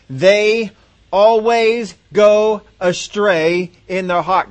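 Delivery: drawn-out "They always go astray"; weighty divine rebuke; God's stern words. Retold or imitated. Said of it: "Look what he says".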